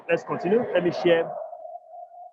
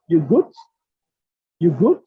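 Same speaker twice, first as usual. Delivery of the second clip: loud questioning; 7 dB louder than usual. Shown as a demonstration. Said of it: "the question is like".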